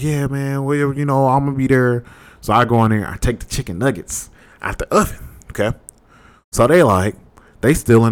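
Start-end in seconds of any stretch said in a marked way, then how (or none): 0.0-2.0 slightly high, casual pretend phone call; fake phone chat. Roommate faking a call to avoid an argument, casual put-on chat. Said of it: "I'm acting like I'm on the phone".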